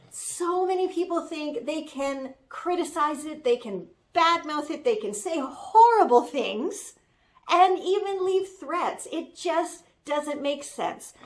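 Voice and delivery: a hint of a sassy young assistant defending her boss; Citrus Maloney. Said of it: "It's me, Citrus Maloney".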